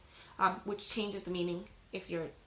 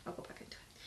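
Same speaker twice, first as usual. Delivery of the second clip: whispered aside; 17 dB quieter, faster than usual. Real, not acted. Aside before resuming reading.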